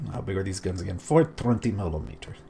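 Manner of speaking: a mock Russian accent, offhand; lightly put-on Russian accent; half-hearted joke Russian accent; terrible Russian accent. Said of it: "Why am I speaking with terrible Russian accent?".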